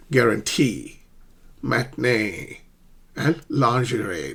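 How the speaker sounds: careful "Guarantee", "matinee", "lingerie", endings held; word-by-word model of "Guarantee", "matinee", "lingerie" with full final vowels; tertiary stress. Shown as a demonstration. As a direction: lean on the last syllables of "Guarantee", "matinee", "lingerie". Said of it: "they have a tertiary stress".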